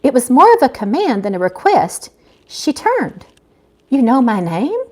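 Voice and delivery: steady read-aloud storytelling voice; story narration. A narrator's reading. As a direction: read the chapter to your listeners. Author reads her novel aloud.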